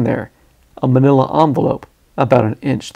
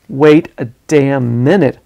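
loud objection; 4 dB louder, slower than usual. Acted. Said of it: "my voice loud in the small compartment".

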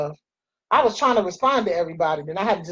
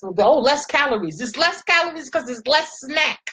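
high, sarcastic sing-song about less calories; mock diet-label voice; 6 semitones higher than usual. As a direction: sneer at the snack's selling point. Mocking the diet snack label.

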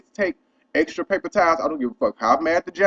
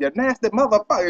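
exaggerated cussing; 6 semitones higher than usual. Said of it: "I'm really over exaggerating on the motherfucker".

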